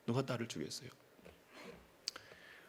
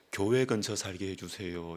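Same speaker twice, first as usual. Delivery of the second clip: timid prayer; 5 semitones lower, 4 dB quieter than usual. Retold or imitated. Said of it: "하나님 앞에 자기는".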